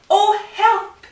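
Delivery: high, loud cry of alarm; frightened. A narrator's reading. Fox sees the Gruffalo, loud high alarm. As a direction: cry out high in storybook panic.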